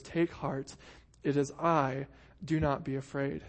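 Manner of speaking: softly reassuring; soft, gentle words of comfort. Shown as a demonstration. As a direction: comfort a frightened friend. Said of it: "a gentleness that can be heard in his voice".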